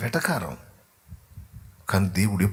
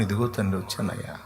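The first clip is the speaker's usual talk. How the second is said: humble quiet plea; 5 dB quieter than usual. Acted. Believer kneeling speaks to God.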